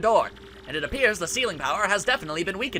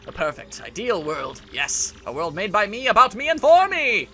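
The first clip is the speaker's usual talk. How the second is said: gloating villain. Acted. Voices gloating villain monologue.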